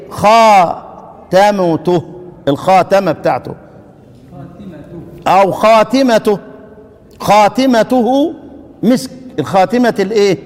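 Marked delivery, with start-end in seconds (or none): 0.1-8.3 خاتمته drawn out slowly; teacher modelling slowly; slow demonstration. Shown as a demonstration. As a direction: lengthen the alif in خاتمته. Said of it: "الالف بقت ايه؟".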